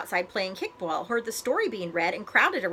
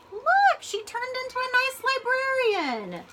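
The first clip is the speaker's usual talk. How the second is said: put-on excited child. A narrator's reading. Child amazed the dragon became a librarian, excited. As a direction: squeal it out in delight.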